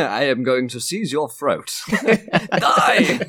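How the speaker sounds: hammed-up accented threat; mock villainous accent, rising to a high "Die!"; different accent. Player parodying his brother's spoken subtext, hammed-up accent. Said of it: "like, a different accent".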